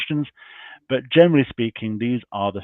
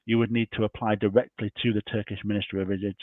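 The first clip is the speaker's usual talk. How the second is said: losing the voice, a bit hoarse. Real, not acted. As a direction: talk with a tired, hoarse voice. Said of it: "I'm losing my voice today".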